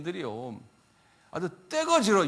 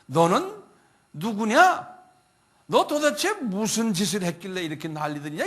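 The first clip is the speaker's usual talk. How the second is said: louder, demanding questions from the commander; commander's stern demand; 6 dB louder than usual. Retold or imitated. Roman commander demanding Paul explain himself, loud and stern. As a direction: bark the questions like a Roman officer. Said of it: "천부장이 바울에게 이런 질문을 해요".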